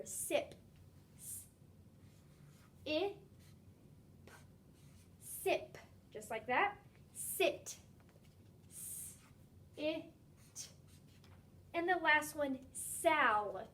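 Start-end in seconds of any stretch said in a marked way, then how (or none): 0.0-10.7 "Sip" split into S, I, p; stretched sounds. Shown as a demonstration. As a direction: split each word into its sounds. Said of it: "stretch out each sound I hear".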